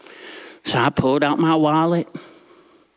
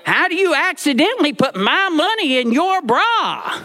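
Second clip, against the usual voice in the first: mock crying boy; 8 semitones higher than usual. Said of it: "And I'm crying at this point too".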